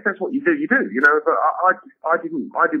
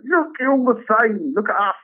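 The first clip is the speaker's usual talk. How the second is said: mock punk taunt; 10 semitones higher than usual. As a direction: taunt them, up high. Punk mocking mainstream.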